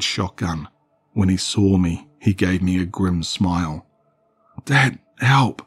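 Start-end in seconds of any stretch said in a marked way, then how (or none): 4.6-5.6 high, loud panicked cry for Dad; frantic cry for help. Acted. Boy fleeing a monster cries to his dad, panicked. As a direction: call out in terror while fleeing. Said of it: "I cried as I pedaled frantically".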